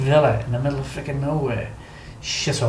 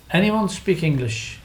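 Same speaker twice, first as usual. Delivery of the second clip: slowly asking round the group; retold question, drawn out for non-native listeners; slow, careful question; 3 semitones higher, slower than usual. Retold call to guards for English.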